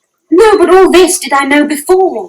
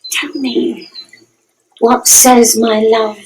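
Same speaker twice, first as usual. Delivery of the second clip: coaxing; 4 dB quieter, much slower than usual. Acted. Juliet coaxing nurse softly.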